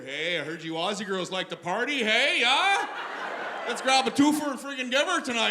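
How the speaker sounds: hammed-up Canadian party-guy accent. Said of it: "the Canadian accent does not have".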